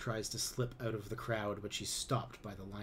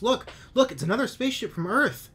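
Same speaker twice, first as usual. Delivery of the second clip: much higher, louder excited yell; excited shout; 12 semitones higher, 11 dB louder than usual. A narrator's reading. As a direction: point at the sky and shout the news. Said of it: "she exclaims".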